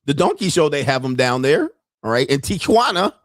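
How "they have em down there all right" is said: normal talking voice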